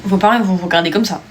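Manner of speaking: burp through the words; words pushed out on a burp; talking while burping. Real, not acted. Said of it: "J'ai rodé, pardon".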